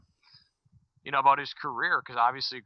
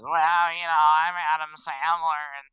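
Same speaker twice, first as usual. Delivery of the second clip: a lightly done goofy Adam Sandler voice, a bit louder; 3 semitones higher, 4 dB louder than usual. Retold or imitated. Podcast host mocking the actor's silly voice for his cohost, lightly done. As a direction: tease the cohost by half-mimicking the actor's silly voice. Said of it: "how to do that accent he always does".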